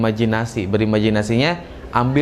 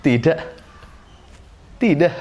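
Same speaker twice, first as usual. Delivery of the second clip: bright, rising happy Tidak, second one higher; 4 semitones higher than usual. Shown as a demonstration. Teacher demonstrating a happy tidak to class. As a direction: say Tidak full of joy. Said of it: "baru ucapin".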